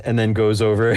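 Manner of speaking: normal talking voice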